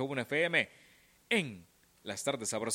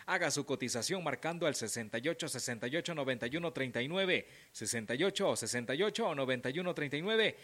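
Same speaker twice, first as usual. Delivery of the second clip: ad read. Acted. Radio sponsor ad read.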